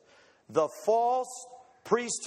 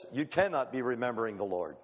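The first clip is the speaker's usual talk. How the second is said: God's voice; 8 semitones lower, faster than usual. Acted. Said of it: "But God says this".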